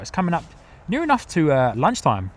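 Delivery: talking through a mouthful of apple; munching between words; chewing while talking. Real, not acted. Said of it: "excuse the munching for a few seconds".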